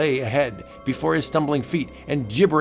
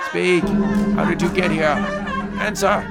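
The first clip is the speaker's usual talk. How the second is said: harsh interrogation; 6 semitones higher, 3 dB louder than usual. Acted. Interrogators shouting.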